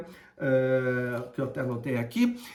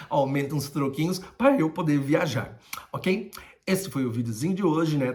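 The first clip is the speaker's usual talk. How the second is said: a little tipsy from wine. Real, not acted. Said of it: "Tô meio altinho".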